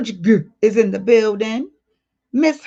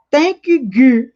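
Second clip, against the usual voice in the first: excited thanks; 3 semitones higher, 5 dB louder, slower than usual. Real, not acted. Reading chat comment aloud, excited.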